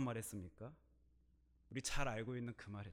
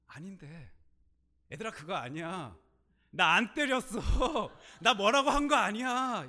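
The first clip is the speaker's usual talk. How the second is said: loud, higher, laughing denial; laughing protest; 8 semitones higher, 12 dB louder than usual. Retold or imitated. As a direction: shout through the door with a laugh. Calling to soldiers outside door.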